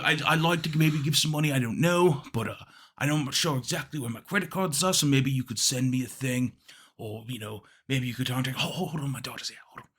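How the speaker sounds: put-on soft, rambling British old man; Britishy accent. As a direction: trail into a British caller's mumble. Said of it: "Britishy accent".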